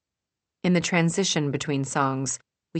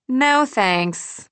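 lightly voiced Julie; 10 semitones higher, 6 dB louder than usual. A narrator's reading.

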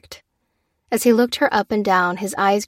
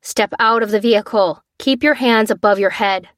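loudspeaker order; 2 semitones higher, 5 dB louder than usual. Acted. Soldier orders through loudspeaker.

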